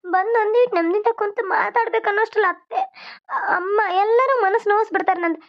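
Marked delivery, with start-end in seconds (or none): 3.3-5.4 crying while complaining; tearful. Acted. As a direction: voice breaking into a sob on the complaint. Wife complains tearfully to husband.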